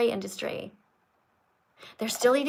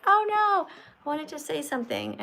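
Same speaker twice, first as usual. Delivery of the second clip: mock dismay; 4 semitones higher than usual. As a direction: imitate a disappointed viewer piping up. Imitating viewers who miss out.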